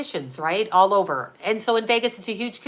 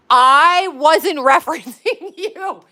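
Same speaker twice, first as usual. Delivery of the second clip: higher, louder, slow sarcastic mimic with a laugh; mocking repeat; 5 semitones higher, 6 dB louder, slower than usual. Wife mocking her husband's denial, sarcastic mimic. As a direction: throw his denial back at him, slowly. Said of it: "mocking repeat of his words".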